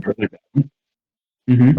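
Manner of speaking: jaw pushed down, cheeks in; sucked in cheeks. Real, not acted. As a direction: talk through a pulled face. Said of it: "And sucking in my cheeks".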